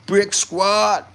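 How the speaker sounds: high, stretched shout-out; calling out. Acted. Streamer greeting Brick Squad in the comments, calling out. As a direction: sing out the squad name.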